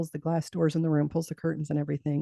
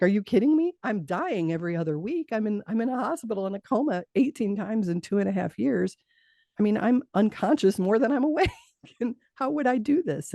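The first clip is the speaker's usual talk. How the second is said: incensed; 5 semitones higher than usual. Retold or imitated. Dying patient arguing back at God, indignant and higher. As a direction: let the outrage rise as you argue. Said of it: "I was incensed".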